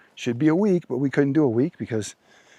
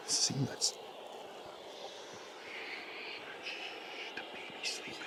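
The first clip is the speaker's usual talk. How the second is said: whispering over a crib; 20 dB quieter than usual. Real, not acted. Baby sleeping in the tent.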